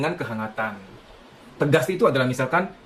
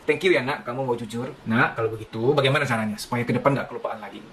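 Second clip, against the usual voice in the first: gentle parent; 5 semitones lower than usual. Shown as a demonstration. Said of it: "Nah, kan seimbang nih".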